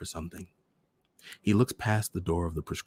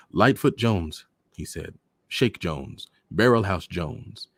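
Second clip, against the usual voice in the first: loud, emphatic naming of nicknames; 7 dB louder, slower than usual. Acted. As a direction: call out each name loudly. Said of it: "talking fast in a very loud voice".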